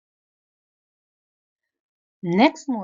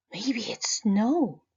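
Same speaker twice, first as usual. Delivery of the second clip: excited; 3 semitones higher, slower than usual. Acted. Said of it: "he excitedly said".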